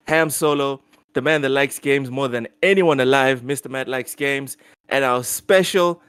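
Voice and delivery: upbeat announcer read, stretching the special guest build-up; hyped-up show intro; podcast host intro. Acted. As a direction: open the show like an eager host.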